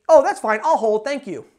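cheerfully assume they'll put you through; the caller politely cuts off the gatekeeper, confident; nice but confident. Shown as a demonstration. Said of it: "very nicely but confidently".

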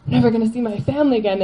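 whispered gasp, then words rushing out fast; a hushed gasp that tips into fast, panicked words; recalling the moment of freaking out, whispered then rushed; retold panic. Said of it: "freaking out".

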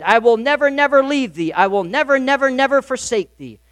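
each "never" stressed and lifted; emphatic nevers. Shown as a demonstration. Pastor quoting Spurgeon's rendering to the church, stressing "never". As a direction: lean hard on every "never". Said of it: "give the full weight of the Greek".

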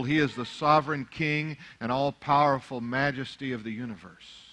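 usual speaking voice

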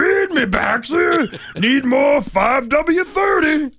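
loud, slow, booming plant monster; Venus flytrap voice. Pretend. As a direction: bellow it like a hungry plant. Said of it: "talk like that Venus flytrap thing".

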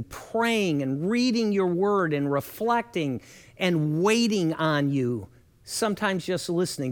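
earnest, unhurried prayer voice; a measured prayer spoken over the congregation; pastor's prayer. Acted. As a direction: pray it sincerely for the listeners. Pastor leads a closing prayer.

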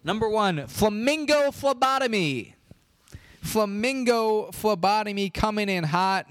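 high, drawn-out winner reveal; triumphant announcement. Real, not acted. Podcast host revealing the top horse name, triumphant announcement. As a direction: announce the champion like a big ringside reveal.

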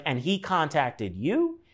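slow, questioning mock disbelief; confused disbelief. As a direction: imitate a confused aunt checking, drawn out. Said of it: "she's just confused by it".

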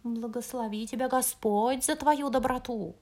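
fawning fox yapping it out; flattering fox. Acted. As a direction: sweet-talk like a sly fox. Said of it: "протявкал льстивый лис". (льстиво тявкающий лис)

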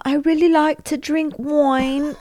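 high, slow mock actress voice; mocking the character. Girlfriend parodying the show's heroine in a high mock voice. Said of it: "It was like".

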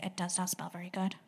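nose held shut, muffled; pinching nose. Shown as a demonstration. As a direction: say it holding your nose. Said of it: "put your hand over your nose and say".

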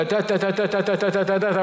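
mocking tongues babble as a sermon joke; mock speaking in tongues. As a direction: mimic noisy tongues babble to tease. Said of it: "ما تقوليش".

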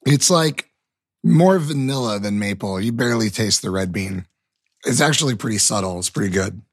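talking through a bite of candy; mouth full. Real, not acted. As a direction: speak around a mouthful of chocolate. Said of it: "I'm gonna try maple red bean right now".

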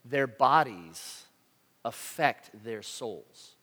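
very slow, fading demon's maxim; slow, weighty quote. Retold or imitated. Greater demon teaching a lesser demon, slow ominous quote. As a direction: drag each word out with weight. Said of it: "the greater demon said".

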